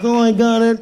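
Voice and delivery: loud triumphant grab. Retold or imitated. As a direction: shout it in triumph. Triumphant catch, acted.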